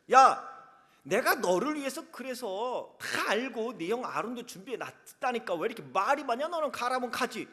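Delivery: 첫 "야"를 크게 터뜨리고 꾸짖듯 몰아붙이는 하나님; 말 많은 모세를 나무라듯 버럭. Acted. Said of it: "그때 하나님이 화를 내시죠". (모세에게 화를 내시는 하나님, 크게 꾸짖듯)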